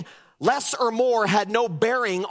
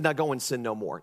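gentle Jesus; 8 semitones lower, 5 dB quieter, faster than usual. Retold or imitated. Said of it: "and said".

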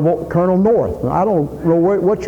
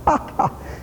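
mock sneering laugh; 9 semitones higher, 7 dB quieter than usual. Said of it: "laughing at him".

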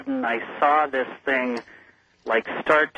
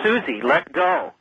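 high-pitched mock scream, not full volume; retold scream; 12 semitones higher than usual. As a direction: retell a desperate scream at a much higher pitch. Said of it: "I screamed".

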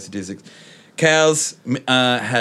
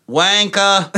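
a louder, higher one-word jeer; heckling jeer; 8 semitones higher, 5 dB louder than usual. Retold or imitated. Friend jeers the Parramatta player at the ground, loud. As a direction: spit the insult at the player.

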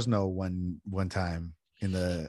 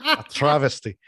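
put-on imperfect go at a Scottish accent; 3 semitones higher, 3 dB louder than usual. Second attempt at ancestors' verdict, amateur Scottish accent. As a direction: try the Scots pronunciation, not quite landing it. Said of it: "No, I'm not even saying it right".

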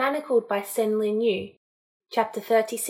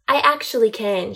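retort; 5 dB louder than usual. Acted. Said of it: "she retorted".

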